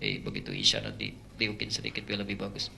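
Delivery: suara setan rendah dan pelan; bisikan setan. Retold or imitated. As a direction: menirukan setan membujuk diam-diam dengan suara sangat rendah. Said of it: "Masuk setan". (bujukan setan, pelan dan dalam)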